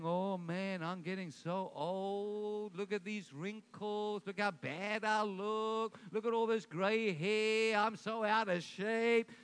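slow, droopy mock moaning at the mirror; mock self-pity. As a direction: drag it out like a sorry complainer. Mocking a mirror complaint about aging.

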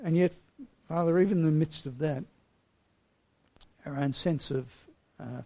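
earnest, unhurried pastoral prayer; closing prayer. Acted. Pastor leading his congregation in prayer: earnest, measured tone. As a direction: pray humbly for the whole church.

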